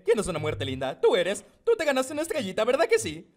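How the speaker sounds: talking to a pet. Acted. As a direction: praise him like a good dog. Praising Death like a pet. (voz de mascota, aguda y rápida)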